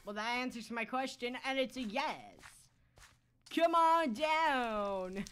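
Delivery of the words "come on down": taunting singsong. Pretend. Taunting in a far voice.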